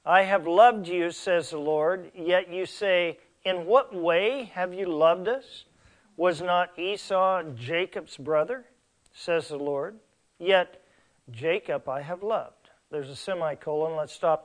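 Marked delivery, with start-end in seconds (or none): 1.1-12.7 scripture reading. Acted. Reads scripture aloud from Malachi.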